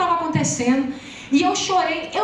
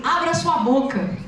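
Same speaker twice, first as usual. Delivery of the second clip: commanding pastor; slower than usual. Retold or imitated. Retold pastor commanding her to open up.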